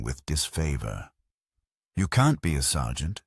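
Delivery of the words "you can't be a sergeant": disapproving. Acted. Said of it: "she said disapprovingly".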